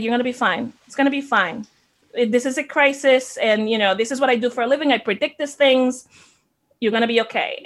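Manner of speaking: a mild retold version of a husband's steady, certain reassurance; lightly voiced husband, calm and sure. Husband calming his worried wife during the crisis, calm and sure. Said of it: "so calmly, so sure".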